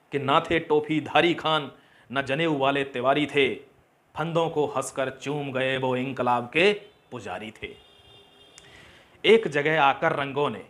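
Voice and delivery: measured, emphatic verse delivery; declaimed patriotic poem; patriotic poem recitation. Acted. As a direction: recite it line by line with pride.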